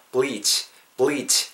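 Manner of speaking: "bleach" with lips pulled sideways; "bleach" with long "ee" and spread lips. Shown as a demonstration. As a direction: end "bleach" on an unrounded "ch". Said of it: "옆으로 그냥 자연스럽게 째면서".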